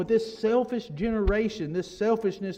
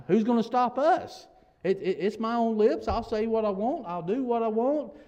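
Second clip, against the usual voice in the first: mock defiant boast, higher-pitched; defiant cry; 4 semitones higher, 3 dB louder than usual. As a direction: imitate the wicked crying out their challenge. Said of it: "'cause they're crying out".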